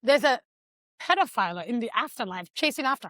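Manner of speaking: lightly voiced child rushing her mother; daughter urging mom. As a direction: plead for haste as the daughter. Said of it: "The daughter is telling her".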